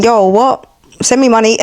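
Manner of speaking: blunt everyday demand, dropping the sweetness; true colours, hood. Retold or imitated. Girlfriend months later asking for money, blunt hood talk. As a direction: drop the act and demand it. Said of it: "true colours come out".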